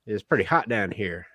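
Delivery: hint of a Southern accent for the devil. Devil chatting to a new arrival in hell, light Southern accent. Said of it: "has a Southern accent".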